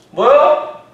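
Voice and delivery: high, loud call back; shouted question. Acted. Disciples in the boat shouting back, puzzled. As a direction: holler back what.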